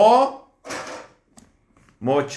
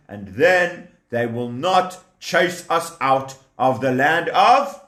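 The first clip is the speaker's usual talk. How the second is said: scheming villain. Acted. Pharaoh laughing, scheming.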